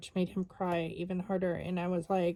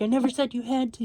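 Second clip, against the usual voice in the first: quick, higher, louder mock of a nasty snap back; nasty retort; 4 semitones higher, 5 dB louder, much faster than usual. Wife imitating her husband snapping back at her, a quick nasty retort. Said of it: "he was just getting all nasty".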